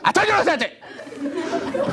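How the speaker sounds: a lightly voiced mom, slowed and high; mock mom.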